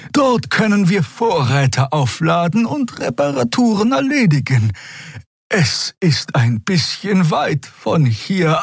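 a strange pilot offering hope; draxül pilot voice. A narrator's reading. Xea tells the crew she knows a place, high and hopeful. Xea's voice.

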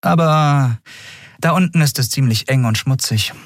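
lightly voiced captain, high; young captain. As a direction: break it to him gently. (Kapitänin, sachlich)

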